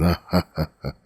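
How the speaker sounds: recluse's taunting "ha ha ha"; acted, measured mocking chuckle; mocking laugh. A narrator's reading. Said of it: "the mocking laugh of the recluse".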